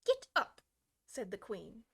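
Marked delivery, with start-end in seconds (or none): 0.0-0.6 very high, loud shriek; shrill, loud. Acted. Queen ordering the gardeners up, shrill shriek. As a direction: shriek it at them. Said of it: "in a shrill, loud voice".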